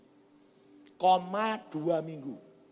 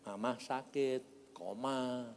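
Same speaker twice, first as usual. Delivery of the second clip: soft, gentle asking of God; retold prayer; 8 dB quieter than usual. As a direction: pray quietly, as if in private. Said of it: "saya tanya, Tuhan".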